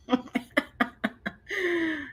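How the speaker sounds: short wry laugh. Real, not acted. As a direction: laugh it off dryly. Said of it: "they fed us well".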